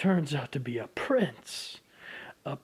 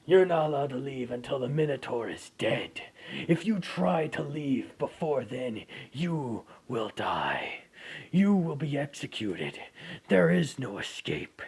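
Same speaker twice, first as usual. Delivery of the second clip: stern king. Acted. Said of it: "And he tells Bell".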